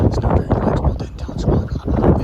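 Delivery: fast, hissed whisper mumble; hissing whisper. Shown as a demonstration. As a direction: mumble it under your breath, hissing. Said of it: "and they sound like this".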